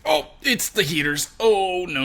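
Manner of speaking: lightly hammed-up "oh no" reaction; mock dismay. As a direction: play a dismayed discovery. Acting Bardock's dismay on spotting villains.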